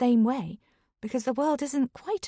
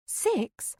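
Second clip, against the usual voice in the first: surprised; 9 semitones higher, 3 dB quieter than usual. Acted. Astonished at the house size.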